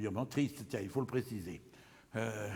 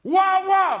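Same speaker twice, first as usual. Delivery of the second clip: high, loud mock barks; yapping dog noises; dog barking; 13 dB louder than usual. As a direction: bark like a little dog.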